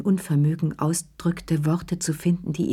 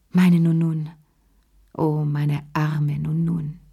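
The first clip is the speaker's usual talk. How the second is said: murmured; slower than usual. Acted. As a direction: murmur it into her hands.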